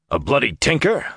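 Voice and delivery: surprised outburst; exclaiming. A narrator's reading. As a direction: blurt it out in surprise. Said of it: "Uno exclaimed".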